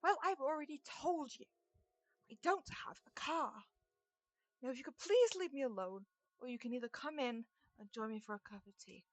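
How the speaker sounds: put-on a polite old lady losing patience. GM voices Ethel again.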